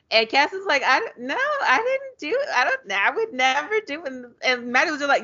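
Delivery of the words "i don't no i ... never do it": high-pitched, stumbling denial; mock flustered denial. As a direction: act out a panicky, higher-voiced denial. Cassie's flustered denial, acted out.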